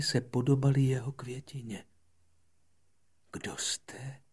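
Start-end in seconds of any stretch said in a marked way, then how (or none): 3.3-4.2 amazed. Acted. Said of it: "zeptal se jich úžasle".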